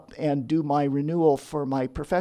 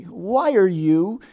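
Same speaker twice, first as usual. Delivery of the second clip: chiding friend; 4 semitones higher than usual. Retold or imitated. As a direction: scold her for wasting money on church. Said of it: "she would chide me and say".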